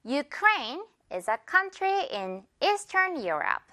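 very slow, "Ukraine" as yoo-KRAYN; spaced-out words for learners to copy; slow model sentence. Shown as a demonstration. Teacher gives the last example to repeat, slow spaced model sentence. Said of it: "한 번 더".

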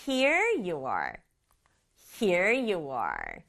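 slow, "Here" leading, then falling away on "you are"; stress on HERE. Shown as a demonstration. Teacher models handing something over, stressing "Here". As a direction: put the weight on "Here" and let the rest drop. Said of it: "요렇게 강조하면 되겠죠".

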